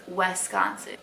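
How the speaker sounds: "Wisconsin" as WES-consin, like west without the t; Southern Wisconsin. Retold or imitated. Vlogger imitates Southerners mispronouncing her home state. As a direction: open the first vowel into "wes". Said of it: "west without the T".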